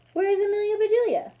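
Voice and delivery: high, fast, loud demand; loud, urgent question. Acted. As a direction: call out where she is, alarmed. Mister Rogers demands answer.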